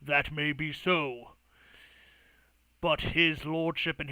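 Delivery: slow, measured in-character reply; skeptical Artorias figure. Acted. Artorias answering the mage's claim, slow and measured. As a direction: weigh each phrase deliberately. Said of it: "kind of squints his eyes and he goes".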